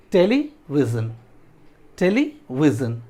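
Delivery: टेलीविजन slowly, a gap after टेली; syllable breakdown. Shown as a demonstration. Teacher repeating the word for students, slowly split. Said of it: "इसको break कर देते हैं".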